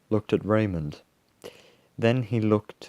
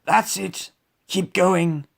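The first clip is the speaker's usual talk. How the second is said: high, loud lion call; raised, carrying lion voice; calling from behind; 10 semitones higher, 5 dB louder, slower than usual. A narrator's reading. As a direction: call encouragement to those ahead. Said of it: "called Ralph from the back".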